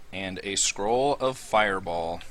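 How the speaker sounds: slow, droopy cartoon dog voice. Shown as a demonstration. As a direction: say it like a mopey hound. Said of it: "That's exactly how he says it. Like Droopy Dog".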